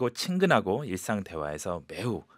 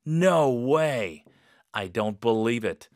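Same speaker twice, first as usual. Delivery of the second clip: disbelieving; much slower than usual. Shown as a demonstration. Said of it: "약간 이런 톤으로".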